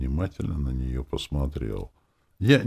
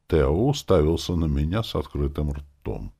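usual speaking voice

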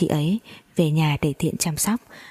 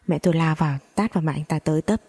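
plain reading voice

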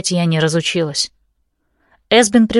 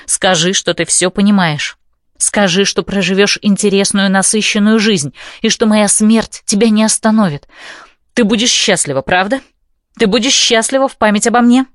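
composed pleading; 2 semitones higher than usual. Acted. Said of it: "Стеффи упрашивает меня, но при этом полностью владеет собой".

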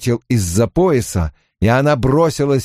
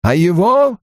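Aginor; 7 semitones higher than usual. A narrator's reading. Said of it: "сказал старик".

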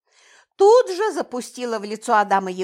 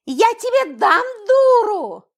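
high, loud furious yell, slow; shouting; 11 semitones higher, 6 dB louder than usual. A narrator's reading. Daughter attacking rude girl, furious yell. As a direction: yell it at her like a tigress. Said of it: "закричала я".

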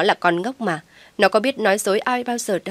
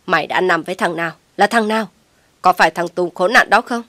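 fast, louder and louder accusation; furious hiss-yell; 6 dB louder than usual. Acted. Mother interrogates pregnant daughter, furious and loud. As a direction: spit out the questions in fury. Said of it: "Cô Lan rít lên".

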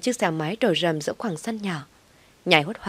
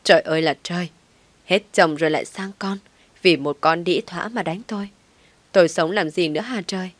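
wailing. Acted. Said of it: "bù lu bù la".

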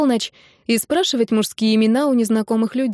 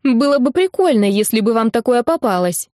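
put-on whining kid sister; 3 semitones higher, 3 dB louder than usual.

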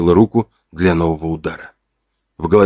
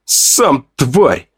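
blurted insult; 5 semitones higher than usual. Acted. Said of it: "вырвалось у меня".

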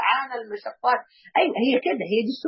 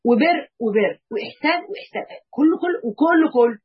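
building to a shout; 4 semitones higher, 3 dB louder than usual. Real, not acted. Preacher building to climax.

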